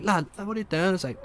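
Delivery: very high-pitched pleading; hammed-up high, alarmed voice; mock panicked protest. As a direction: imitate a guy frantically trying to stop someone. Acted panicked protest in a retold scene.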